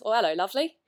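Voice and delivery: lightly imitated English accent; attempted English accent. Fan quoting actor Tom Felton's greeting, attempted English accent. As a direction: try a mild, unconvincing English accent. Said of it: "Oh, that's a terrible accent".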